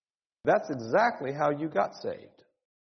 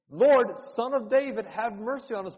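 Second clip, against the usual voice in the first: raised, higher desperate plea; crying out again; 5 semitones higher than usual. Retold or imitated. Blind men crying out again to Jesus, raised desperate plea. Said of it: "And they cry out again".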